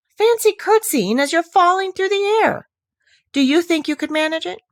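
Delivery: high, loud playful disbelief; amused wonder. A narrator's reading. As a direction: marvel aloud to the listener. Narrator marvels at reader.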